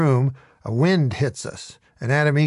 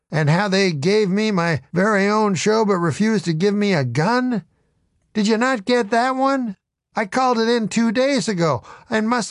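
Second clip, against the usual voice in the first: indignant, pitch climbing higher; rising anger; 5 semitones higher than usual. Acted. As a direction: press him harder and higher with every question. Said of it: "my words getting louder and angrier".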